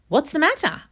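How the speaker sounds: high, worried piglet question; concerned piglet. Acted. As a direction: ask gently like a small pig. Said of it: "asked Hamilton".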